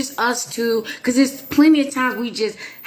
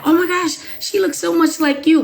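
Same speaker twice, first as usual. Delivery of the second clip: higher, excited gush of amazement; gushing onlookers; 8 semitones higher than usual. Retold or imitated. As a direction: squeal it like a stranger seeing the resemblance. People gushing at her daughter.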